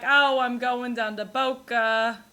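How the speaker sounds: light imitation of a Long Island grandma; a hint of a chatty Long Island grandmother. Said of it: "They're like".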